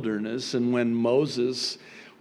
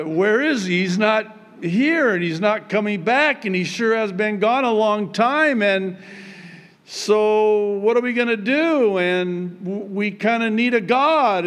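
high-pitched, pressing crowd voice; mock fretful grumbling, pitched up; complaining Israelites; 8 semitones higher, 4 dB louder than usual. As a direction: pester Aaron in a raised voice.

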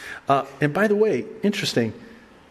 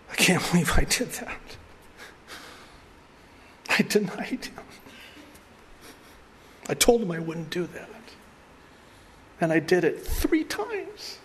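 anguished; 7 semitones higher than usual. Retold or imitated. Peter despairing after the denial.

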